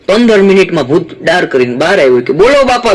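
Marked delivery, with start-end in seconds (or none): 2.3-2.9 proud ghost reporting back; high ghost announcing the work is finished. Acted. Ghost returns again.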